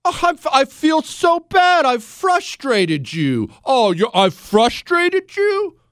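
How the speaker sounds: high, sarcastic, fake sorrow; hammed-up sympathy aimed at the president; mock pity. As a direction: pretend to feel bad, dripping sarcasm.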